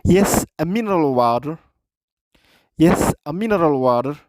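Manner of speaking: slow, careful English with stress on room; slow repeat for learners. Shown as a demonstration. Teacher repeating a clip line slowly for students, slow and careful. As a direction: say it slowly so the class can copy.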